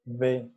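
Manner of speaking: "B" voiced with lip vibration; vibrating B. Shown as a demonstration. Teacher shows the class the voiced "B". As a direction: let the lips buzz on "B". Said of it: "y va a vibrar".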